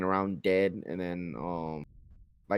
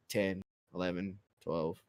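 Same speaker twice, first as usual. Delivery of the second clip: soft, offhand tally of kills; nonchalant counting; 5 semitones lower, 11 dB quieter than usual. Retold or imitated. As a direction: count them off like it's nothing. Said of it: "he said it, like, nonchalantly".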